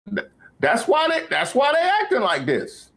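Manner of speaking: very high falsetto; high-pitched mock complaint. Comedian explaining why they act like this, in a high mock complaint. Same high voice mocking the reaction.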